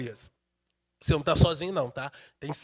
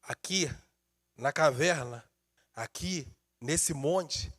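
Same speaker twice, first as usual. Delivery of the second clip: much softer, lower, hushed thoughts; quiet inner voice; 6 semitones lower, 8 dB quieter than usual. Pretend. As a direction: murmur it to yourself in the cave. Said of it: "E talvez Elias pudesse pensar assim".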